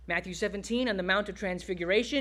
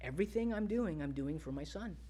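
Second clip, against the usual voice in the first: soft, gently falling away; tender Father; 3 semitones lower, 10 dB quieter than usual. Acted. The Father explaining he does everything for his Son, tender. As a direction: softly confide it, with understated tenderness. Preacher voices God's answer.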